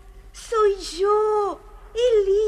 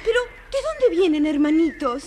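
laughing question. Acted. Elisa reunited with brothers.

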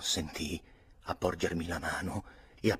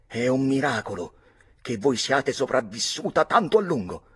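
higher, louder sneering jab; sneering retort; 6 semitones higher, 6 dB louder than usual. A narrator's reading. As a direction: sneer the line back at her. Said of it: "ribatté Lord George sogghignando". (ribattuta beffarda, con un ghigno)

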